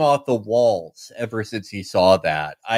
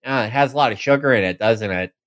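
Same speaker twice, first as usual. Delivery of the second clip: disgusted; 3 semitones lower, faster than usual. Retold or imitated. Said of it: "looks at it with disgust and goes".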